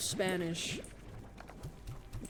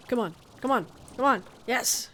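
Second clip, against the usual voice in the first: excited; 3 semitones higher, 3 dB louder, faster than usual. Real, not acted. Urging character across jump.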